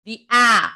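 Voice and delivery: آ held long and open; long aa vowel. Shown as a demonstration. Teacher showing pupils the long آ sound. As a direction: stretch the آ, a long aa. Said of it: "Not A".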